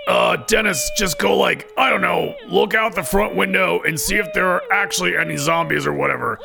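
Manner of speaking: irritated, half-hearted orders. Acted. Ed tells Dennis to check for zombies, irritated. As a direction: give orders with exasperated um-and-whatever vagueness. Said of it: "annoyed and irritated".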